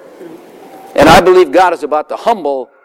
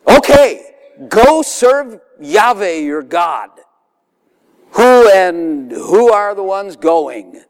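high, slow Pharaoh granting leave; hammed-up Pharaoh; 4 semitones higher, much slower than usual. Preacher voicing Pharaoh letting Moses go, high and slow. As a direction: sing out Okay up high, then drawl the rest. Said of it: "and he said to them".

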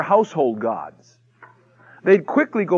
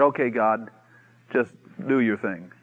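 low, soft and unhurried; offhand, hushed request; understated casual prayer; 7 semitones lower, 6 dB quieter than usual. Acted. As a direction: hand it over to God quietly. Prophet casually prays after contest.

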